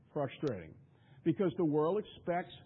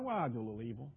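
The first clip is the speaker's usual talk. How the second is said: mocking a casual sinner, lower and quieter; mock trivial confession; 4 semitones lower, 3 dB quieter, much faster than usual. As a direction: lower and softer, offhand.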